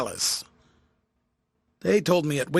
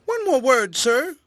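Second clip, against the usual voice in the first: much higher, louder urgent call; crying out; 11 semitones higher, 6 dB louder, slower than usual. A narrator's reading. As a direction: call him back as he turns away. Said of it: "cried the tramp".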